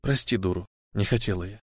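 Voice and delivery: mother whispering an apology. Acted. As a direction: whisper it close to his ear. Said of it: "шепча".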